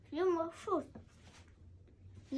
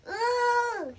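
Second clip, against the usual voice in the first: high surprised ooh; 9 semitones higher, 6 dB louder than usual. Pretend. Character reacts in toy story.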